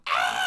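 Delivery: short mimicked scream; imitated kids' scream. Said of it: "They were just screaming".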